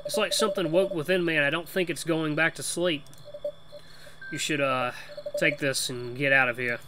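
lightly put-on Boston accent; a loose, half-sure Boston accent; attempted Boston accent. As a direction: have a go at talking like a Bostonian. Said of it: "trying to do a Boston accent".

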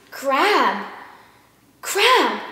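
squeaky little critter voice; cartoon voice. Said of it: "Can you show us?".

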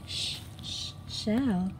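whispered sh, sh, then shell; drawn-out sh sounds leading into shell; stretched sh sound. Shown as a demonstration. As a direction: hiss the sh before saying shell. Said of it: "This is a real shell".

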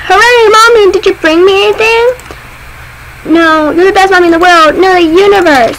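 put-on child cheering for mommy; excited kid voice. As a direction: greet mommy like an eager kid.

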